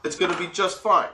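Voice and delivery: voicing his own naive confidence; naive inner thought. Security guard thinking it will be an easy night, mock carefree. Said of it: "So you think".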